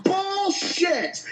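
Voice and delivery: furious shouting rant; angry rant. Real, not acted. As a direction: rage at the movie, full volume. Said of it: "blood pressure pills after that one".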